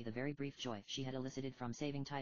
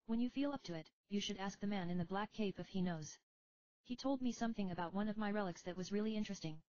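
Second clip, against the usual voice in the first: put-on higher, tired young heroine; young woman voice; 7 semitones higher than usual. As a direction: speak as a weary young summoner. Rydia advises.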